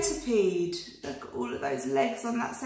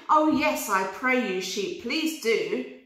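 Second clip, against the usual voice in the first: eager rabbit; 2 semitones higher than usual. Acted. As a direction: accept with delight. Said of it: "replied the rhyming rabbit".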